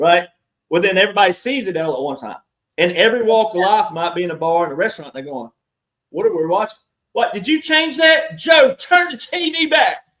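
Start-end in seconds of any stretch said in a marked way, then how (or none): 6.1-10.0 mock very high, climbing, rising yell. Imitating bar patrons yelling at the bartender: imitating people yelling at a bartender. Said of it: "Like they're yelling at the bartender".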